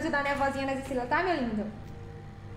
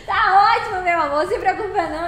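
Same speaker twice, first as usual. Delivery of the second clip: laughing reassurance; 2 semitones higher, 4 dB louder than usual. Real, not acted.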